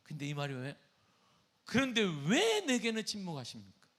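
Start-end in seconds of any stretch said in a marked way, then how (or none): 1.6-3.9 high, loud plea to God; raised-voice pleading lament; David's anguished cry. Acted. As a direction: cry out in protest, drawing out the "why". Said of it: "다윗은 이 말을 하고 있는 거예요".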